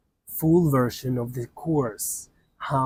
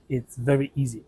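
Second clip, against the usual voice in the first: usual speaking voice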